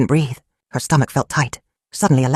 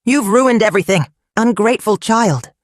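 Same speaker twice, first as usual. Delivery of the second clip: screaming; 6 semitones higher than usual. A narrator's reading.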